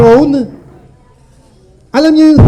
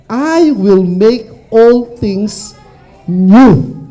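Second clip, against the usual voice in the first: slow, lower, solemn voice of the Lord; solemn scripture quote; 3 semitones lower, much slower than usual. Acted. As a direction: intone the verse slowly and gravely. (mabagal at taimtim na pagbigkas)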